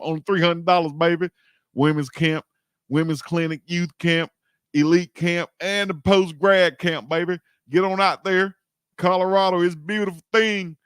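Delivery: high, loud promo pitch, selling the camps; excited hype. Real, not acted. Hyping camps like an ad.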